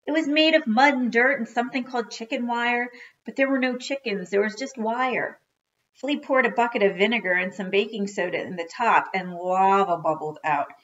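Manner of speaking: lively read-aloud to children, with acted dialogue; story narration. A narrator's reading.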